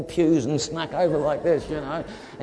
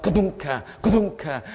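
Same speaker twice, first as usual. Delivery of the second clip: "kadunka" as a jerking thump; imitated jolting thuds. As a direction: mimic the jolts of an electric fence. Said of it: "it was kind of like".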